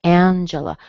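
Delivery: "Angela" as AN-juh-luh; strong first syllable. Shown as a demonstration. Teacher summing up the pattern, first-syllable stress on "Angela". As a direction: stress AN, reduce the rest of "Angela". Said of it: "Strong in the beginning and then two weak vowels".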